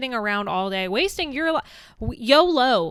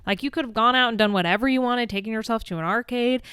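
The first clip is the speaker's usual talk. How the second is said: exasperated scolding; 2 semitones higher, 3 dB louder than usual. Retold or imitated. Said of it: "But I'm like".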